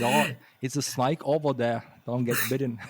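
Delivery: mock-Aussie, roundish and blurred; imitated Australian accent. Host imitating a local's snake warning, Australian accent. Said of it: "Australian accent".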